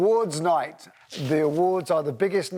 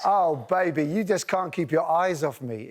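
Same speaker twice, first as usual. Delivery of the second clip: playful mock flirt.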